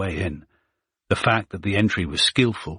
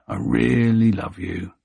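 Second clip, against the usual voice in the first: slow, tender and intimate; slower than usual. Acted. Tender words to frightened dog.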